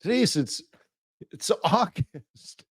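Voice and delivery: high, slow mock disbelief; baffled client. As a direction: play the puzzled investor, dragging out August. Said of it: "They're like".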